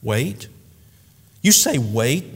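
mildly indignant questioning; understated indignant disbelief. Acted. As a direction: throw it back as an affronted question. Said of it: "my indignant reply".

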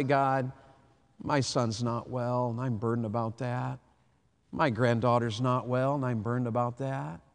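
soft, slow, heavy-hearted prayer; quiet burdened prayer. Acted. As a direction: confide a burden quietly to God.

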